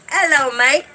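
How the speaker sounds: lightly imitated Australian greeting; a hint of mock-Australian; Australian accent. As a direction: mimic an Australian friend's hello. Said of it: "it's just his accent that I love".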